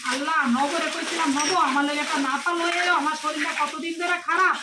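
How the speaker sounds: a touch of noisy wailing; loud complaining. Acted. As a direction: complain out loud about aches and pains. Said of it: "এত চিল্লাচিল্লি করতেছো কে".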